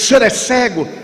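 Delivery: high, incredulous question; can't believe he's blind; stranger's surprise. Retold or imitated. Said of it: "Ele disse". (estranho surpreso, pergunta aguda)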